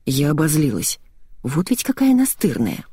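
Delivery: usual speaking voice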